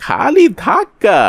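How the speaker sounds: high, slow, mocking question; mocking surprise. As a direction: stretch it out as if to scoff at his worry. Kalu mocks the worried merchant. (বিদ্রূপের সুরে অবাক প্রশ্ন)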